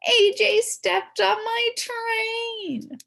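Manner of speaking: put-on high, slow, wailing girl voice; upset girl. A narrator's reading. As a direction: whine it like a wronged little queen.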